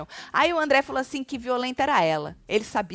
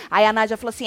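ordinary talk, nothing marked

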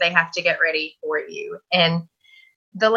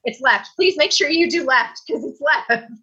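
raised, pleading insistence; urgent insisting; 6 semitones higher than usual. Retold or imitated. Patient urging the surgical team to operate on left, urgent pleading. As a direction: insist they get the side right.

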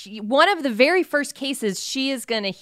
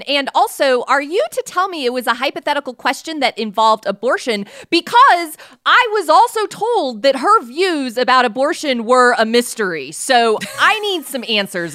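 mock outrage; 4 semitones higher, 5 dB louder than usual. Real, not acted. Mock demanding answers.

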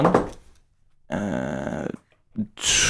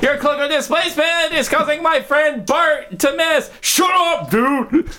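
very high, frustrated yelp; squeaky angry monster; 12 semitones higher than usual. Acted. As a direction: snap at your buddy, tiny voice. Monster yells at friend Bart.

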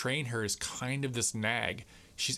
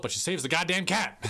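laughing; 7 semitones higher, 4 dB louder than usual. Real, not acted. Laughing at the cat rescue.

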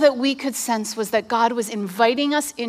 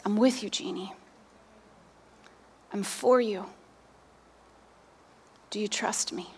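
soft, low, unhurried reassurance; hushed, lowered divine reply; gentle voice of God; 4 semitones lower, 11 dB quieter than usual. Retold or imitated. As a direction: reassure tenderly, with long pauses.

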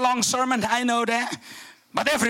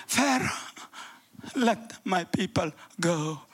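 timid, softer, half-hearted plea; wimpy; 3 semitones lower, 5 dB quieter than usual. Shown as a demonstration. Moses timidly asking Pharaoh to let the people go, softer and wimpy. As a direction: say it meekly, as if afraid to ask. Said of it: "It's a little wimpy side".

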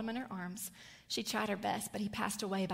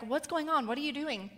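puzzled husband; 5 semitones higher, 4 dB louder than usual. Retold or imitated. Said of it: "he's like".

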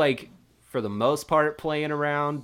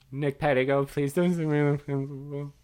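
small, tearful mock plea; whimpering; 2 semitones higher than usual. Kid answers monitor asking his name, mock tearful whimper. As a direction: whimper it as if about to cry. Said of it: "while I whimpered".

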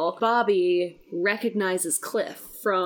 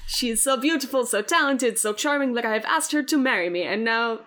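put-on terrible German accent. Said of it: "do a terrible German accent".

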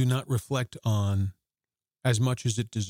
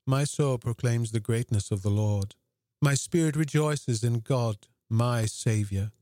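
calm; 2 semitones lower than usual. Shown as a demonstration. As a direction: recite it calm and humble, eyes downcast. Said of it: "we imagine her being very calm".

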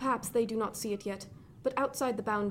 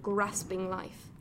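slow contempt; much slower than usual. Acted. Threat at the end.

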